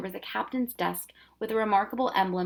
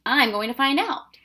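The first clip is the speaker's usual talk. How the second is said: eager; 6 semitones higher, 7 dB louder than usual. Acted. Eager boy.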